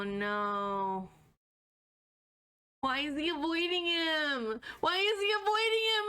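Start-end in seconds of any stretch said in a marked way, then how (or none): 4.8-6.1 higher, louder disbelieving repeat; surprised. Real, not acted. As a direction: ask it again in disbelief. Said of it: "repeated louder, higher".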